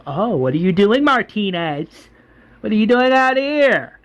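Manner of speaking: rising pitch of a taken-aback leader; acted surprise. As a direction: demand an explanation in mock astonishment. Acted confrontation, governor finds Martinez.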